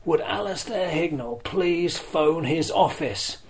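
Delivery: slow, high public-address call; tannoy announcement. Retold or imitated. Retelling the stadium tannoy paging him. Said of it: "tannoy announcement that would say".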